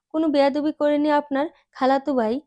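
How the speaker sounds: খালাতো ভাই pressed a little harder; light extra weight on খালাতো ভাই; stress on খালাতো ভাই. A narrator's reading. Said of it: "শেষ দুটো শব্দে আলাদাই একটা জোর দিল".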